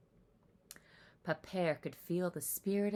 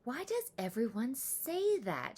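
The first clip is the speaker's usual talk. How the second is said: dejected thought; 6 semitones higher than usual. A narrator's reading. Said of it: "hanging her head".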